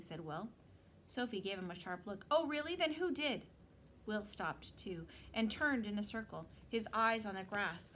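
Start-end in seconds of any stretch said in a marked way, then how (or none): 2.3-3.5 sarcastic. Acted. Sophie suspects Will of insulting.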